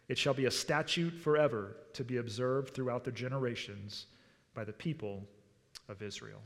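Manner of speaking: measured, even reading aloud; scripture reading. Acted. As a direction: read the verses out solemnly, phrase by phrase. Reads second scripture passage aloud.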